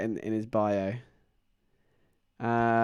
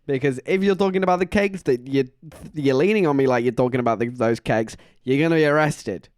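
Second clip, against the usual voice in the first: loud mock-indignant telling-off; louder, scold her half-joking; indignant retort; 6 dB louder than usual. A worker warning a leaning customer, mock outrage. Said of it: "And I was like".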